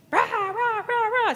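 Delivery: high-pitched babble of fuss; mock commotion. Woman making a big scene, mock commotion. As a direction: imitate someone making a racket.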